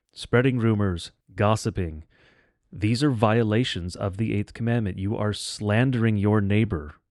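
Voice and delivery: ordinary talk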